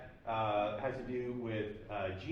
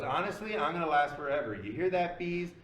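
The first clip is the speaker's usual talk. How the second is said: loud, higher, cocky retold boast; mock boastful Gina; 3 semitones higher, 4 dB louder than usual. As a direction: brag to the whole room like you can't lose. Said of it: "and she goes".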